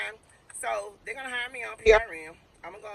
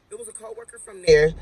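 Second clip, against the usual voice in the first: much higher, excited restatement; excited repeat; 14 semitones higher, 4 dB louder than usual. Real, not acted. Telling viewers about the coworker, a much higher excited repeat. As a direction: say it again, thrilled and amazed.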